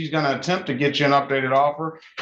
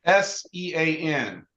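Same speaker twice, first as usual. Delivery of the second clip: dictating; slower than usual. Shown as a demonstration. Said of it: "write down your email".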